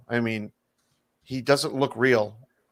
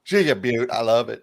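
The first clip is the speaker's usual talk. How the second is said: put-on Californian accent; 4 dB louder than usual. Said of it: "That's my Californian accent".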